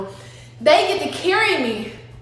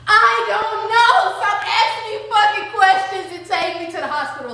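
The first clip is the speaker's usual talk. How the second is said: frantic snap; 5 semitones higher than usual. Retold or imitated. Snapping at the medic.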